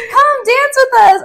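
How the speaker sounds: high, loud mock Russian accent; mock Russian guy. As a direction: play the pushy Russian dancer. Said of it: "they're like".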